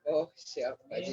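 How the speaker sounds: talking around a cigarette; words round a cigarette between lips; cigarette in mouth. Real, not acted. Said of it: "Pak Haji Dadangnya lagi sambil merokok dulu nih".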